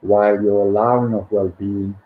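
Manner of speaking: measured book reading with pauses between phrases; meditation read-aloud. Acted. Host reads listeners a financial abundance meditation, measured read-aloud.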